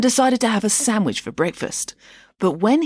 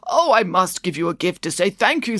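put-on old Shah. Mum voicing the Shah.

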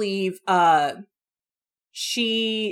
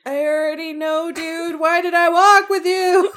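loud, hammed-up wail through a laugh; mock exasperation; 8 semitones higher, 7 dB louder than usual. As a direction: play it exasperated and over the top. Acting out Anne's exasperation.

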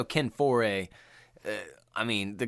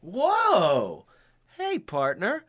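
higher, drawn-out cowboy voice; old-timey cowboy; 10 semitones higher, slower than usual. Retold or imitated. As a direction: mellow old western partner talk. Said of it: "people just had a different way of talking".

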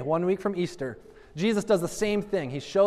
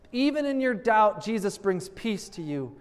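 preached refrain; 2 semitones higher than usual. Acted.

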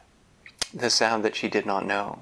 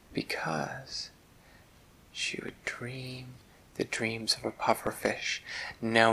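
bedtime story. A narrator's reading. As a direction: lull a child to sleep.

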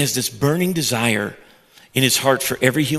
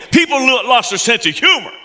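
laughing; 11 semitones higher, 5 dB louder than usual. Real, not acted. Laughing at audience's reaction.

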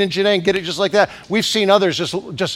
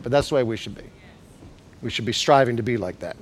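soft prayer; 7 semitones lower, 6 dB quieter than usual. Acted. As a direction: murmur it as a surrender to Jesus. Continues quiet prayerful voice.

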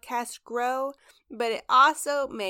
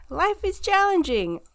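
higher, louder, pushed hard; emphatic; 9 semitones higher, 5 dB louder than usual. Real, not acted. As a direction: lean hard into challenging. Laughing emphatic repeat, much louder.

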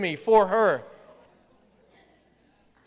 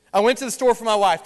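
quick, sly, a bit louder, with a wink in the voice; dark sly reading; 4 dB louder, faster than usual. Shown as a demonstration. Pastor playing the evil side of the phrase for church, sly and quick. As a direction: rattle it off like it hides a scheming motive. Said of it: "y'all will be dark today. You'll be negative. You'll be evil".

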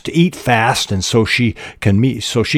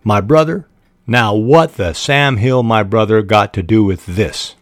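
mock surprise in a Southern accent; mildly put-on astonishment, Southern deputy; pretended surprise. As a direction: lightly feign indignant surprise, country Southern style. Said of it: "reared back in pretended surprise".

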